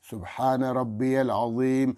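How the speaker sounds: slow, clear "سبحان ربی العظیم"; each word distinct; slow tasbih. Shown as a demonstration. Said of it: "ہر شخص پہچان سکے کہ بھائی اس نے صحیح پڑھا". (آرام سے صاف تسبیح)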